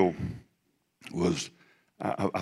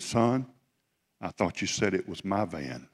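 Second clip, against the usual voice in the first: softer, quiet and unhurried, like a patient father; God's gentle voice; 5 dB quieter, slower than usual. Retold or imitated. God gently reminds the preacher whose van it is, softly. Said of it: "I heard God say".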